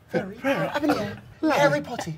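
soft, airy fairy-like British lilt; little fairy voice. Shown as a demonstration. Explaining the noble accent to friends, soft fairy voice. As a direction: float it lightly and quietly. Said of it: "It's like a little fairy".

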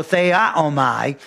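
"theaomai" stretched out slowly, rising at the end; careful, slow "theaomai" with a rise; slow Greek word. Shown as a demonstration. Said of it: "theaomai means to observe".

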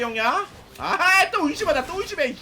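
ordinary delivery

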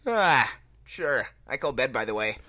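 line spoken through a fake yawn. Shown as a demonstration. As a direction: yawn your way through the words. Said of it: "Can you do a yawn?".

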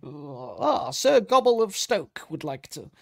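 high, slow posh lady voice; cartoon princess. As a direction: announce it like a grand dame. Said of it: "sounds like a princess in a kid's cartoon".

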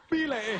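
loud tongue click starting "Bile"; "Bile" launched with a sharp click; click in the name. Acted. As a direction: pop a click before "Bile". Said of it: "He had a click in his name".

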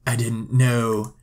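slow, lightly voiced Sim boyfriend; mock-sheepish, words stretched out slowly; put-on boyfriend voice. Boyfriend answering his date about the kiss, in a slow put-on voice. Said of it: "apparently that's his voice now".

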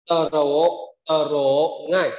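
Tờ rổ with tr broken into tờ plus rờ; tr split as t-r. Shown as a demonstration. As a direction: say tờ then rờ, not trờ. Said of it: "đọc là tờ rờ".

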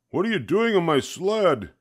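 high, put-on voice of an annoyed man; annoyed racer. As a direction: demand it like a racer finding a stranger on his sled. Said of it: "saw him and said".

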